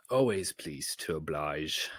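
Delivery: slow sly whisper. A narrator's reading. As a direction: breathe it out slyly. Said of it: "Sineas whispered".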